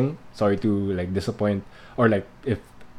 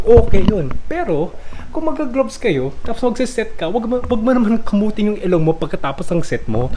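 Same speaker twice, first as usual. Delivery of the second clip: loud, high-pitched mock lecture in Filipino; hammed-up exasperated pleading, voice pushed up and loud; parody rant; 4 semitones higher, 7 dB louder than usual. Vlogger parodying a video, scolding gym-goers about covid, loud mock rant. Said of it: "to post a parody video".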